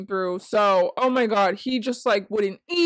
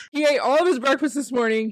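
laughing through words; 2 semitones higher than usual. Real, not acted. Repeats the news, laughing.

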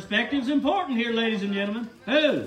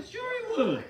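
emphatic; 10 semitones higher, 3 dB quieter than usual. Real, not acted. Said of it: "repeated with rising emphasis".

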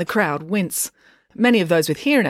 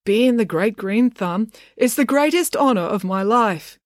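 slow, higher-pitched recited speech; reading off paper; 5 semitones higher, slower than usual. A narrator's reading. Dad reads the mayor's speech, reciting off paper. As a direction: deliver it like a scripted declaration. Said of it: "reading off a piece of paper".

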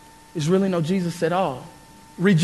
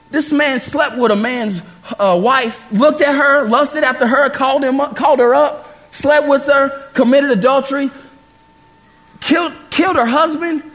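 building indignation; 4 semitones higher than usual. Real, not acted. Listing David's sins, building.

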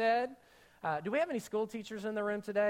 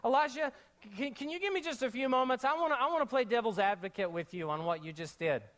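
mock sweet request. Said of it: "It's almost like she said".

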